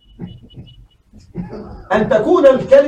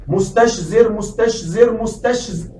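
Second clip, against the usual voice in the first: مستشزر repeated, each one softer until it trails off; fading repetition; 3 dB quieter than usual. Shown as a demonstration. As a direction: say مستشزر three times, fading as the tongue tires. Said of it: "تشعر بعد مرتين أو ثلاث ستخطئ".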